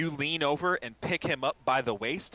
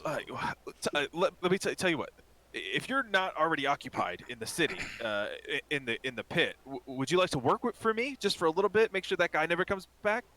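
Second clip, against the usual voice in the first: hesitant pitch, climbing high at the question; eager timid shopkeeper; 5 semitones higher than usual. Acted. Shopkeep recruiting the brawler as a guard, nervously hopeful. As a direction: stumble into a hopeful job offer.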